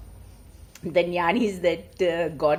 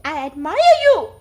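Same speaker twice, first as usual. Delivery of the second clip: high, loud call of admiration; scream to the mountain; 10 semitones higher, 12 dB louder than usual. A narrator's reading. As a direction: shout it out to the mountains. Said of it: "he screams to the mountain".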